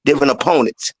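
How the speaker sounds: slow, measured delivery with pauses between phrases; slow motion. Shown as a demonstration. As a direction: spell it out slowly and deliberately. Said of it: "Let me say it in slow motion".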